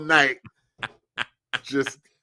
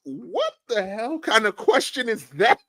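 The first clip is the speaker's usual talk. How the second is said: higher, indignant mock retort; exasperated outburst; 11 semitones higher than usual. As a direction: fire it back in disbelief. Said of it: "I almost said".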